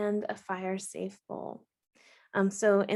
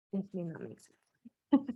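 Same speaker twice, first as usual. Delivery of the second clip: even, unhurried meditation voice with long pauses; guided meditation. Acted. Host guiding listeners through settling in and a body scan, guided meditation. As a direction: gently lead listeners inward, leaving space between phrases.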